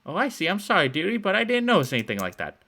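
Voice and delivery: put-on old woman luring kids with cookies, high and sweet; sugary old woman. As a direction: coo like a too-sweet grandma.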